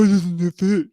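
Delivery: hammed-up exasperated whine; mock frustration. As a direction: imitate someone struggling to jam it in. Acting out baffled square-peg forcing.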